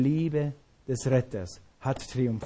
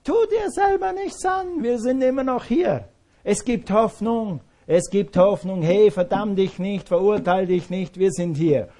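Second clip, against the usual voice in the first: much higher, pleading reassurance; urgent high plea; 6 semitones higher, 5 dB louder than usual. Retold or imitated. Paul begging the jailer not to kill himself, high urgent plea. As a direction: cry out high to stop him harming himself. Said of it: "Stattdessen sagt er".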